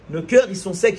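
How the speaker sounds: forceful repeat. Acted. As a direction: hammer "Nos cœurs, ils sont secs" at the crowd.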